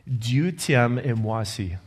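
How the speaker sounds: slow, careful French from a beginner; halting French. Retold or imitated. To the elder after washing his feet, slow beginner French. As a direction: spell out each French word slowly and gently. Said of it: "I mustered what little French that I have".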